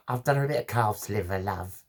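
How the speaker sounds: lightly voiced East End neighbour, doting; a hint of a doting Cockney neighbour; imitating an East End neighbour. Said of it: "She's a real East End girl".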